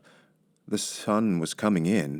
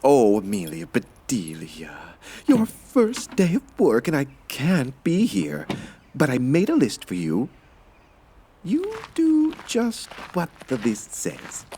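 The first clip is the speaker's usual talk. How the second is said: higher, slower lady of the house giving orders; a fussy employer leaving instructions, pitched up high; Mrs. Rogers' voice; 6 semitones higher, slower than usual. A narrator's reading. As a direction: employer voice lifted high and drawn out. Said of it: "said Missus Rogers".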